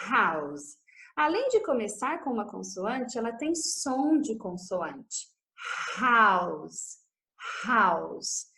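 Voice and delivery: House with a breathy H; clear house demo. Shown as a demonstration. Teacher modeling House for students, clear H. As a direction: sound the H of House. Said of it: "House começa com a letra H".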